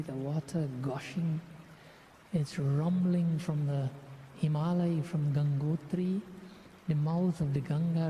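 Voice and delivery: measured visualization with long pauses between phrases; guided meditation. Real, not acted. Leader guiding devotees to imagine the Ganga, guided meditation. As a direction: let each image settle before the next.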